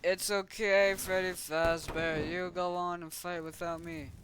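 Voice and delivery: high voice, loud at first then easing; play-acted dying heroine. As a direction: nobly send a friend on, hammed-up. Dying figure urges friend on.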